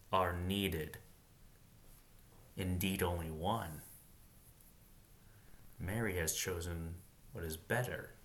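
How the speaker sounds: meditate on each phrase aloud; meditative reread. Shown as a demonstration. Reader rereading Jesus' answer to meditate, hushed. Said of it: "That's something to meditate on".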